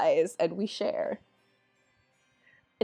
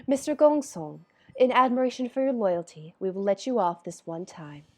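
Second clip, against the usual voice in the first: measured royal decree; regal voice; 5 dB quieter than usual. Acted. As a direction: speak like a composed king. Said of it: "slipping into this, like, very regal voice".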